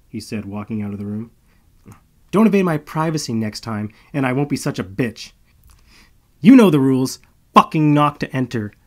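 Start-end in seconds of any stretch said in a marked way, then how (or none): 2.3-7.2 loud, high shout down the hall; yelling after him. Acted. Malo yells at Marcus as he leaves, loud shout. 7.5-8.7 loud shout, fucking hit hardest; yelled rule. Acted. Malo yells after the departing Marcus, loud. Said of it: "I yell after him".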